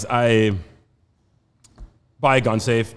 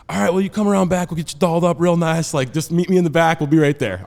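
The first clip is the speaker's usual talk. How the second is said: quick, higher-pitched Florida redneck voice; 7 semitones higher, 5 dB louder than usual. Acted. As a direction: rattle it off as a friendly Florida redneck. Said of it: "what a true Florida redneck sounds like".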